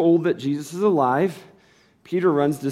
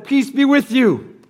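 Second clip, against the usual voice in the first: a slow, higher, solemn Jesus greeting; Jesus' greeting; 9 semitones higher, 8 dB louder, slower than usual. Acted. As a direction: give the blessing slowly and high. Jesus greets frightened disciples.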